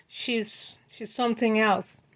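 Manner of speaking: hushed breathy aside; whisper. Real, not acted. Whispering to viewers about Dee. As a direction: drop to a whisper for the gossip.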